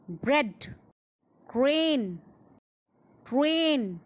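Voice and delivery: each word from "ब्रांच" to "ट्रेन" alone, clusters blended; isolated words like "ब्लॉक", clear, pauses between; model pronunciation. Shown as a demonstration. Teacher leading repeat-along drill, "ब्रांच" to "ट्रेन" said separately and clearly. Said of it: "मेरे साथ बोलो".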